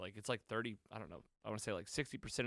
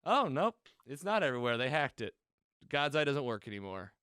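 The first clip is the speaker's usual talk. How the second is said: mock letdown; 3 semitones higher, 5 dB louder than usual. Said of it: "And then they go".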